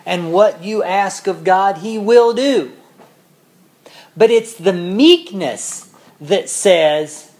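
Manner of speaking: loud, high preaching, slowing at the end; preaching at full force. Real, not acted. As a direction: preach it out with fervour.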